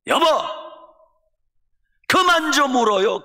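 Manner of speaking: high, loud exasperated cry at her husband; wife yelling at her crying husband to stop, loud and high; wife shouting. Retold or imitated. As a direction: snap him out of his weeping. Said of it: "소리를 지르더래요".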